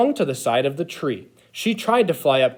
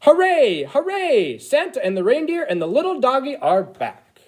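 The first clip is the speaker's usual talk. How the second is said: excited elf cheer; 10 semitones higher than usual. A narrator's reading. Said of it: "elves sang out a cheer".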